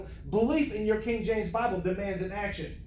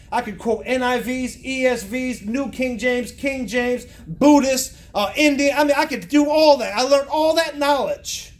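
emphatic list building to a loud peak; forceful preaching; 7 dB louder, slower than usual. Real, not acted. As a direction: pile up the list, getting louder.

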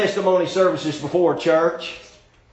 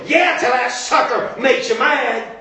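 snide inner voice; 4 semitones higher than usual. Retold or imitated. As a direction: voice her sarcastic inner thoughts. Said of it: "that little voice back there was going".

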